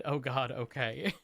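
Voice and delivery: slow, dragging mock groan; imitating Ruby. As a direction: lightly mimic her weary reply. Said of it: "She said".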